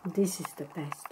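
talking while chewing; mouth full. Real, not acted. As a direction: say it through a bite. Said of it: "I'm sorry, I'm chewing".

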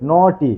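"নটি" in two distinct beats, no-ti; split into syllables. Shown as a demonstration. Teacher repeating the word for students, "নটি" split in two. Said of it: "দুবারে উচ্চারণ হয়".

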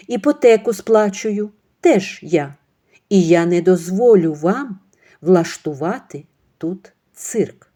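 slow, loud, cold-hard rebuke; firm anger. Acted. Ksenia firmly rebuking her mother-in-law. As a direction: put her in her place.

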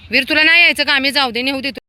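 high, loud question; calling out. Real, not acted. Asking Veer up on the window if he's coming, loud high call. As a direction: call up to him.

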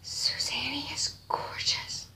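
soft, slow whisper of praise. Real, not acted. Praising the doll's maker, slow whisper. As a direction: breathe the words in awe.

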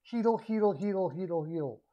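Heedle repeated as HEE-dle, fading down; drilling a name. Shown as a demonstration. Vlogger drilling a name he keeps botching, repeating HEE-dle. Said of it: "I always say Heidel".

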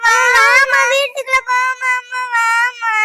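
loud, high wail with very slow, stretched words; crying child. Acted. Hungry, scared child begs mother to come inside, wailing. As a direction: bawl and plead like a frightened little child. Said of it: "என் தங்க பிள்ளைல அழுது".

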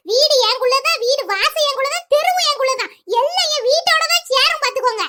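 உரத்த குரலில் வீம்பாகச் சண்டை; வீடு என்னுடையது என்று சத்தமாக மார்தட்டுதல்; defiant outburst. Acted. Defiant quarrel with the neighbours. (அண்டை வீட்டாரிடம் கோபமாக, உரத்த குரலில் வீம்பு பேசுதல்)

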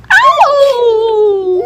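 loud, high laughing yelp; laughing shout. Real, not acted. Laughing shout as the dog jumps on her.

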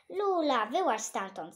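loud call to the dog. Acted. Caretaker calling his dog out of the hole, loud call. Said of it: "zawołał woźny".

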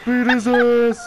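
shouting. Real, not acted.

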